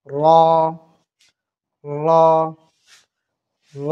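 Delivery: র said short, not রা; a short clean র without a long a; correct র. Shown as a demonstration. Teacher giving the correct র instead of রা. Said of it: "উচ্চারণ হবে র".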